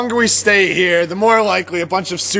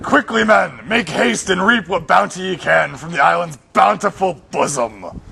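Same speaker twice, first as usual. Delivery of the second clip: regal epic hero. Acted. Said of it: "an epic one must speak in a regal bearing".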